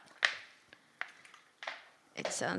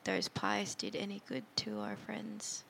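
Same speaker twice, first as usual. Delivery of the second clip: hushed, fast worried whisper; 12 dB quieter than usual. Acted. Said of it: "I'm just looking at Irina like".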